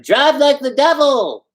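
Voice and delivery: high, slow, hammed-up shout; shouted order. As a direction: bellow it at the driver. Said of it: "He climbed into the drotsky and shouted".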